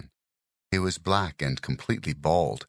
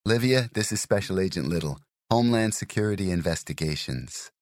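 raised voice; 5 semitones higher than usual. Acted. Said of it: "raising her voice over the sounds".

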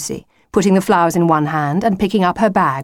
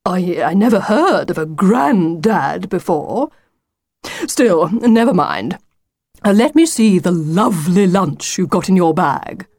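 confused wolf, recovering. Acted. Wolf baffled, then asking Lucy for lunch, recovering. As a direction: stumble at first, then move on.

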